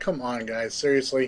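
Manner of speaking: ordinary talk, nothing marked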